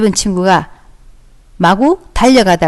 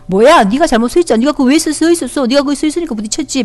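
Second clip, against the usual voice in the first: higher-pitched acted blaming; accusing; 5 semitones higher than usual. Teacher as child refusing to apologize to friend, accusing. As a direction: argue like an indignant child.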